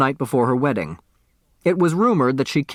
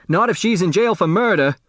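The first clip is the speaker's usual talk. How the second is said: complaining bitterly; 7 semitones higher, faster than usual. A narrator's reading. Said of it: "Otis Amber complained bitterly".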